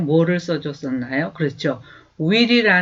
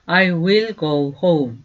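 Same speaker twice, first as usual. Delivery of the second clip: slow, clear teacher's model, each word apart; slow demo pronunciation; slow model sentence; much slower than usual. Shown as a demonstration. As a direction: say it slowly for students to repeat. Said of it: "저절로 나오시도록 자꾸 연습을".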